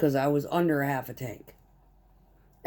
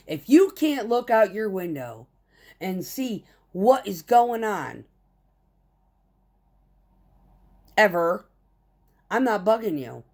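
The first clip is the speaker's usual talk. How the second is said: retold telling off; 4 semitones higher than usual. Driver tells off the plant manager, heated. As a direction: lay down the law to the boss.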